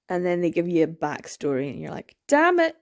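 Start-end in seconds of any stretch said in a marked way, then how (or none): 2.3-2.8 loud, high mock-frustrated outburst; exasperated curse. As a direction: exclaim it, pitched up in comic exasperation. Same reaction, now exclaimed.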